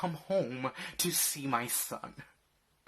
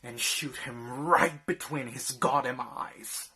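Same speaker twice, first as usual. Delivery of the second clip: angry; 4 dB louder than usual. Acted. Threat to protect wife.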